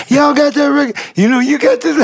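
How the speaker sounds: high-pitched stagey promo pitch; theater voice. Retold or imitated. New boss coaching him to call radio stations, theater voice. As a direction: project it high like a theater performer. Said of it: "use your theater voice".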